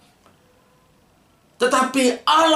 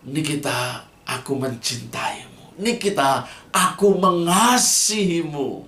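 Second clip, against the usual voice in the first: tender lover's words; 3 semitones lower than usual. Retold or imitated. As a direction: whisper it fondly to a sweetheart. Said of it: "Dengan mesranya, dengan anggunnya". (ucapan mesra dan lembut)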